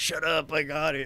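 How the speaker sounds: very slow, drawn-out, giggling through the words. Retelling a buddy's reply while he giggled: imitating giggling while talking. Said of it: "my buddy's just, like, laughing, like, giggling".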